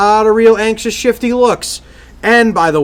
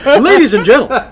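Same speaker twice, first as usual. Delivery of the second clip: announcer voice. Acted. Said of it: "randomly interrupt you with".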